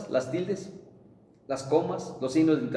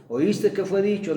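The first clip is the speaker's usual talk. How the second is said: slow, raised, weighty reading of the verse; emphatic scripture quote; 5 semitones higher, 4 dB louder than usual. Acted. Preacher to congregation, quoting Jesus, slow and emphatic. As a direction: proclaim each word like scripture.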